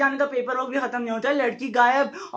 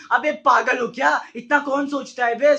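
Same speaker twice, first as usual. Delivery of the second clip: exasperated retort; 2 semitones higher, 4 dB louder than usual. Acted. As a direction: snap back in comic exasperation. Exasperated retort to repeated question. (झुंझलाहट भरा हैरान जवाब)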